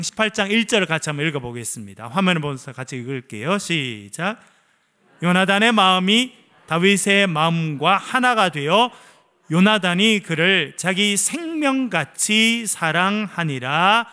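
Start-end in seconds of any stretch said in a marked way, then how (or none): 5.2-14.1 slow, loud unison Bible reading; scripture reading. Acted. Pastor leading the church in reading Samuel, slow and loud. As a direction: read each word out slowly, together. Congregation reads scripture aloud.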